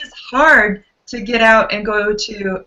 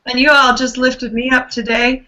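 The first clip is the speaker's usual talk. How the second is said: gravelly, worn-out voice; hoarse voice. Real, not acted. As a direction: speak through a tired, hoarse throat. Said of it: "in this gravelly voice".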